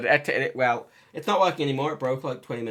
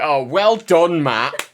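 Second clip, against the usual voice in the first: mock well done, louder; sarcastic praise; 2 semitones higher, 11 dB louder, much slower than usual. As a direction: fake praise dripping with sarcasm. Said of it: "will always sound sarcastic".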